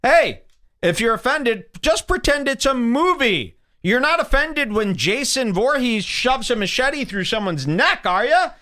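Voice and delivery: mock disclaimer. Shown as a demonstration. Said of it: "make a disclaimer here".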